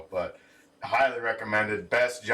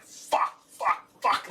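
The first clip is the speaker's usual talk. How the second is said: whispered cursing; hushed panicking swears; whispered panic; 10 semitones higher, much slower than usual. Retold or imitated. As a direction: curse under his breath in a panic. Panicked man in bathroom.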